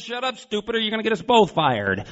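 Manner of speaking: high, urgent telling-off building loud; exasperated scolding. Acted. Lion to fellow fake in the cage, scolding. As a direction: shut him up before he ruins it. Lion's punchline to the panicked man.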